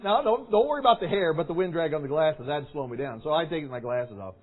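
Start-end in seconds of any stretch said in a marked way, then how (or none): 0.0-3.2 put-on boyish reasoning. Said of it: "that's what I was thinking".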